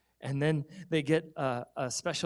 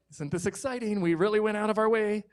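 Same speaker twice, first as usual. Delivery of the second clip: put-on eager kids; 5 semitones higher than usual. Kids proud of dinner.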